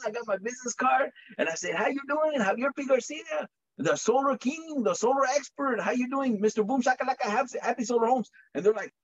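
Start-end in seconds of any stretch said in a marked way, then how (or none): 1.7-8.3 salesman pitch. Retold or imitated. Introducing himself as Solar King.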